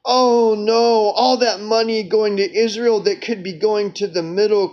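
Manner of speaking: exaggerated "oh no" of fake dismay; mock sad. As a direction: feign sadness, sarcastically. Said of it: "I'm supposed to be sad".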